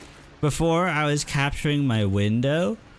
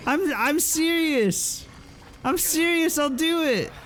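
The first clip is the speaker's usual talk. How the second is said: very high, strained insistence; squeaky panicked insistence; squeaky desperate insistence; 13 semitones higher than usual. Real, not acted. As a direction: insist you mean it, voice cracking high. Threatening the attacking cow.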